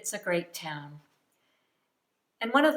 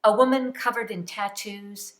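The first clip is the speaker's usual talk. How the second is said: measured poetry reading in short phrases; poem recitation. Acted. Poet reciting her drag show tribute to fans, measured delivery. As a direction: read it line by line, pausing after each image. Reads own poem aloud.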